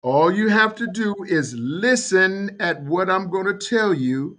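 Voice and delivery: calm voice. Acted. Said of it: "a very calm voice gets on".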